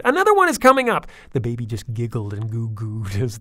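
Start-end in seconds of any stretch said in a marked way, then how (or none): 0.0-1.1 put-on very high, loud child's shout; excited shout. A narrator's reading. Chaz shouts to her sister as the mound moves, excited. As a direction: cry out with thrill. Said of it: "Chaz shouted".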